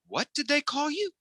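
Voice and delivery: alarmed mom. Retold or imitated. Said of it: "she's like".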